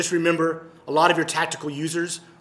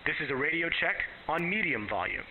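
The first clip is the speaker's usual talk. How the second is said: radio at medium volume; 7 dB quieter than usual. Shown as a demonstration. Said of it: "change the volume on my knob A to medium volume".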